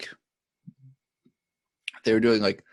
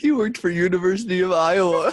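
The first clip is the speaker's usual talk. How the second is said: laughing punchline; 8 semitones higher than usual. Real, not acted.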